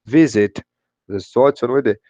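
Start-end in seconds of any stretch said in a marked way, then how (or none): 0.0-0.6 "Visit" with VI emphasized; stress on first syllable. Shown as a demonstration. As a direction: hit the start of "Visit". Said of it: "você não aplica essa regra".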